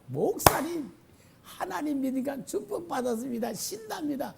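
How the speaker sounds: high, bright-eyed happy report; overjoyed believer. Retold or imitated. Believer rushing to tell the pastor, imitated as high and thrilled. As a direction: burst in thrilled with the good news. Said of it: "신나가지고 막 온 거야".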